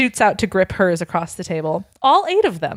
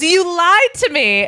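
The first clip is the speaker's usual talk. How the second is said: hurt Hermione; 11 semitones higher, 4 dB louder, slower than usual. Acted.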